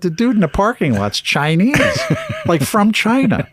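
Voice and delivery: very high, laughing through the words; retold helpless laughter. Patient explains to the check-in girl, retold through laughter. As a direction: squeal it out while cracking up. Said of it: "I started laughing again".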